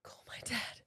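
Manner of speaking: hushed, breath-only request; imitated weak, voiceless plea; whispered plea. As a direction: whisper it urgently to your partner. Urgent aside to partner.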